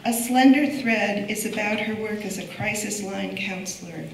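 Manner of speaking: projected reading of a prepared biography; formal introduction. Real, not acted. Curator introducing a poet to the audience, formal introduction. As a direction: present the honoured guest from a script. Reads speaker's biography from script.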